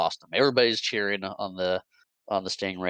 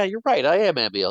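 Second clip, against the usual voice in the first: gloating echo; 9 semitones higher, 6 dB louder, faster than usual. Retold or imitated. Jackson echoes praise gloating.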